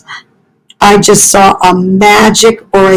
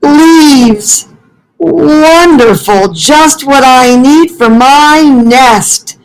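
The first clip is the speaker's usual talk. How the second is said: much higher, greedy-delighted squirrel voice; 5 semitones higher, slower than usual. Acted. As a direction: pounce on the leaves with glee. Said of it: "said a squirrel".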